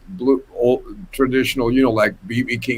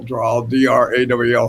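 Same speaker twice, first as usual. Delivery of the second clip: ordinary talk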